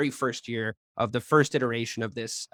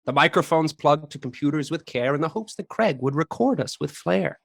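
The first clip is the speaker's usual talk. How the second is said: hammed-up English accent reciting a rhyme; put-on English accent, Christmas-poem cadence; a bad English accent played for laughs. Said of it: "that accent sucked".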